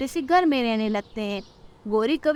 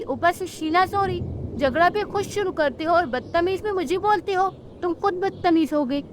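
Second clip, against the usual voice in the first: high, indignant quarrelling chick voice; a cheeky little bird answering back; high-pitched squabbling bird girl; angry young chick; 5 semitones higher than usual. Acted.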